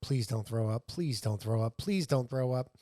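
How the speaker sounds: a touch of stern insistence. Retold or imitated. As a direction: say it low and firm, each time the same. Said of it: "Just very sternly".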